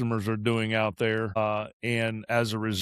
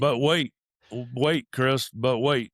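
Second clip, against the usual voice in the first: infomercial. Pretend. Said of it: "You sound like an infomercial".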